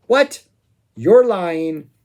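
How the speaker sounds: a high, loud, startled what; mock disbelief. Imitating a singer answering the heckler, mock disbelief. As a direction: throw back a scoffing what.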